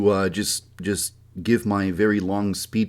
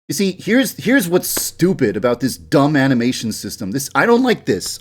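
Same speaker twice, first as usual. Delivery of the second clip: frustrated; 4 semitones higher, 4 dB louder than usual. Real, not acted. Complaining about animation system.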